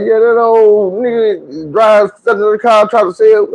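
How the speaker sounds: put-on mild girl voice, slow; her slow explanation. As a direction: draw it out like she's gossiping. Woman voiced slowly.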